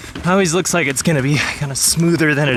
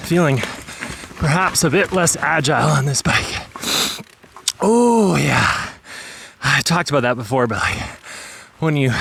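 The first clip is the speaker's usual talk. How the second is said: out of breath. Real, not acted. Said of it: "man, my heart rate's up".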